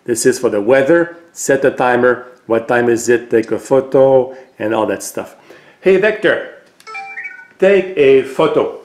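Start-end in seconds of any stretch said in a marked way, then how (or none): 5.8-8.8 raised, higher call on hey; voice command. Real, not acted. Owner gives his robot a clear spoken command.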